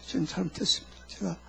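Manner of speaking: hushed, low confession; acted repentance. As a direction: confess softly, as if in private prayer. Acts repenting before the Lord. (나직이 회개하는 기도 흉내)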